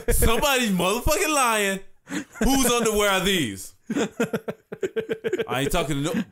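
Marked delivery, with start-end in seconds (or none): 0.1-3.7 retold furious demand. Dad demanding who owns the underwear, angry. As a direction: grill the whole house about the underwear. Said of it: "I was mad at everybody".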